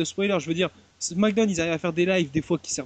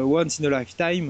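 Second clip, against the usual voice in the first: slow, English-accented phrase, said a bit drawn out. Shown as a demonstration. Podcast host names the show campaign in an English accent. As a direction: say the title with a proper English accent. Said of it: "avec mon accent anglais".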